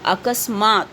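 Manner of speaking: अकस्मात said "a-kas-maat", s after the ka; correct pronunciation. Shown as a demonstration. Teacher showing pupils how to read it, अकस्मात pronounced "a-kas-maat". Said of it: "किस तरह से आप उच्चारण उसका करेंगे?".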